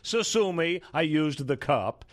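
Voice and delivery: high, slow, whiny excuse; whiny woman voice. Retold or imitated. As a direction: mimic a defensive woman. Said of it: "along the lines of her saying".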